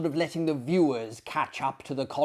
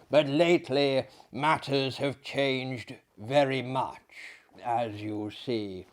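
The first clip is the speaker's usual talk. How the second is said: French doctor voice; 5 dB louder than usual. Acted. Maillard explains.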